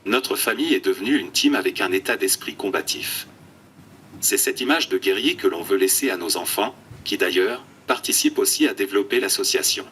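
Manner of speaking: computer text-to-speech voice; flat synthetic speech from an eye-tracking tablet. Real, not acted. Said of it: "une voix de synthèse". (voix de synthèse robotique)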